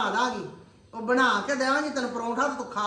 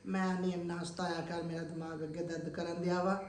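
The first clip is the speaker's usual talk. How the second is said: weary complaint; 7 semitones lower, 12 dB quieter than usual. Real, not acted. Mother complains of headache.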